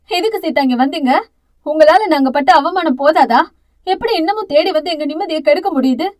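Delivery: loud, pained reproach; anguished. Acted. Mother confronting Seetha at the hospital, anguished. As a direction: accuse them through grief. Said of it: "குறையாத வேதனையோடு".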